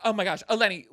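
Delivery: high loud laugh spilling into words; laughing hard while talking. Real, not acted. Laughing at shirt joke.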